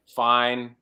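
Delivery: short, clipped fine; a terse, annoyed "Fine"; curt fine. Retold or imitated. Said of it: "like that".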